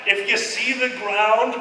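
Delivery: slow, laughing stoner advice; lazy giggly stoner voice; stoned pilot instructions. Retold or imitated. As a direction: give dopey flying tips. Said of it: "He's like".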